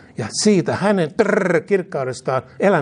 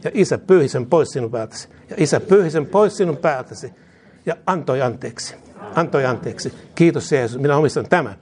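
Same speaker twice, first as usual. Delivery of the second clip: fervent call-and-response prayer, falling ends; led prayer. Real, not acted. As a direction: lead the congregation line by line, each phrase said twice. Leads repeat-after-me prayer. (esirukous toistettavaksi)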